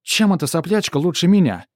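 high, loud jealous whine; a jealous spoiled princess; cartoon princess. Принцесса возмущается. (ревнивая принцесса)

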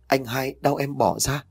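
in pain. A narrator's reading. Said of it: "mặt mày đau đớn".

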